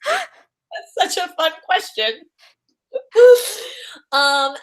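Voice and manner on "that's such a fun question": laughing, high and slow with delight. Real, not acted. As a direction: gush with a laugh over the question. Delighted by fan question.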